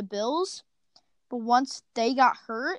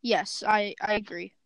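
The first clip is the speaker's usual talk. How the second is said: choppy, cutting-out voice; glitchy mic. Real, not acted. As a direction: voice breaking up over a bad mic. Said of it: "Your, your mic is glitching out a lot again".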